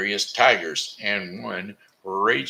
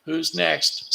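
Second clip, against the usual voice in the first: cheery call; 11 semitones higher, 3 dB louder than usual. Acted. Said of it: "said my father".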